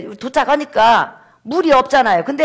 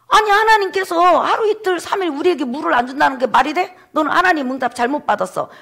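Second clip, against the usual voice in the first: higher-pitched mock grumbling protest; resentful complaint; 4 semitones higher than usual. Israelites blaming Moses over three days without water, resentful. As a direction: act out a mildly indignant accusation. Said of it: "모세를 원망하고".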